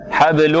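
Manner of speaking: حبل ending in a held nasal m; ghunna demo. Shown as a demonstration. Teacher shows the first ghunna, ghunna demo. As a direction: merge the end of حبل into a long humming m. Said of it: "إدغام في الميم في الميم".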